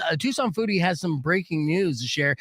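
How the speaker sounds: bright, lifted DJ intro; radio announcer voice. Pretend. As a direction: open the show like a radio DJ. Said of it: "I wanna hear your best radio announcer voice".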